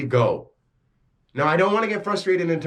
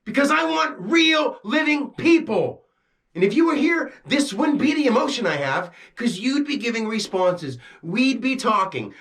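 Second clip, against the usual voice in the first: frustrated outburst; 4 semitones higher than usual. Real, not acted. Frustrated rant at the camera.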